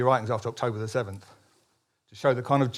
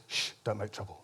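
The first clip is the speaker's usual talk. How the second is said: much softer, lower hushed plea; timid hush; 4 semitones lower, 13 dB quieter than usual. Retold or imitated. Joke's timid old Jew hushing his defiant friend, softly and lower. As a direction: shush him nervously, barely above a murmur.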